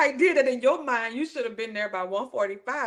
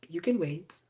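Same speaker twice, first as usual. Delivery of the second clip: low curt reply; 7 semitones lower, 6 dB quieter than usual. Retold or imitated. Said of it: "she was like".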